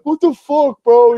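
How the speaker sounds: high, incredulous "what the fuck, bro"; mock shocked friends. Friends asking why he left the front row, high mock disbelief. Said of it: "They're like".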